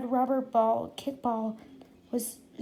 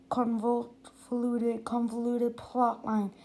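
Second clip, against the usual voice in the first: slow careful; slower than usual. Real, not acted. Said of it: "slow careful word".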